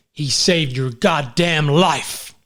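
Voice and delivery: slow, drawn-out bad American accent; hammed-up American movie hero, badly faked; terrible American accent. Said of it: "that's a terrible American accent".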